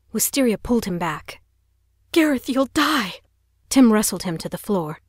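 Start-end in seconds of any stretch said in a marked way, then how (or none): 2.1-3.2 high, loud pleading shout; terrified brother crying out; desperate cry. Acted. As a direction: beg him not to go. Wrestling brother to floor.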